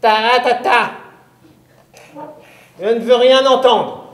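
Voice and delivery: high, loud witch laying down a test; witch's challenge. Acted. Witch proposes a test to the boy, high and commanding. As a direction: set the challenge like a stern witch. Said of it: "La sorcière me répond".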